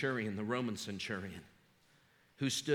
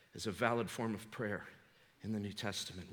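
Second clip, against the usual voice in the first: normal talking voice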